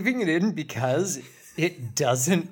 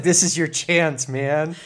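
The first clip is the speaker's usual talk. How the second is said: laughing; 3 semitones higher than usual. Retold or imitated. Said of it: "I was like".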